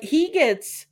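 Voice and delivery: ordinary talk, nothing marked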